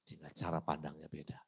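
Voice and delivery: whispered, hushed. Real, not acted. Preacher whispering the key point to the congregation. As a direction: lean in and whisper it.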